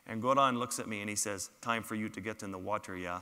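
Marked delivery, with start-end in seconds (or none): 1.6-3.2 softer, lightly imitated Swedish accent; deep Swedish accent. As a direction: play the Swedish guide with understated accent. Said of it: "in his deep Swedish accent".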